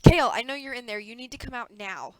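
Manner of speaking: loud shout to someone behind a door; calling through a door. Acted. Campaign manager calling to Kale through the hotel door. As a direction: call out so he hears you inside.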